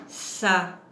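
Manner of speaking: "Sarah" broken into two separate beats; deux syllabes détachées. Shown as a demonstration. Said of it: "puisqu'elle a deux syllabes". (« Sarah » en séparant les deux syllabes)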